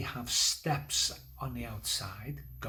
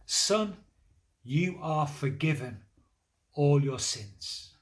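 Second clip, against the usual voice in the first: solemn Jesus; 3 dB louder, slower than usual. Acted. Jesus to the man on the mat, slow and solemn. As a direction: announce the forgiveness slowly and deliberately. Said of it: "Jesus says to the man".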